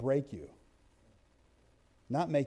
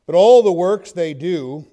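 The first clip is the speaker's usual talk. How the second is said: emphatic scripture reading; 12 dB louder, slower than usual. Real, not acted.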